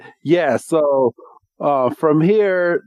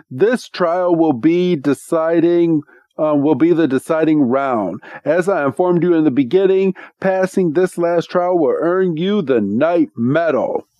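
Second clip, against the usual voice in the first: Wickstrom announcing; 4 semitones higher than usual. Retold or imitated. Trial master explains rules, acted.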